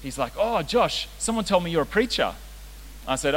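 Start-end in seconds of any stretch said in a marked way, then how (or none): 0.4-2.3 lightly voiced teenage lad, pitched up; a hint of an eager young coworker; imitating a teenage trainee. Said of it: "he's only about seventeen".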